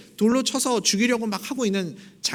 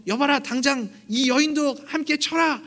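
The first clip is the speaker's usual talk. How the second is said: much higher barked order; commanding shout; 8 semitones higher than usual. Retold or imitated. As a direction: call the servants with imperious rage. Nobleman orders servants.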